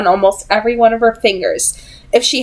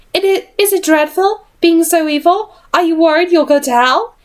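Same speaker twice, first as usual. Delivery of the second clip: mocking Jessamine; 8 semitones higher than usual. Jessamine keeps mocking Tessa.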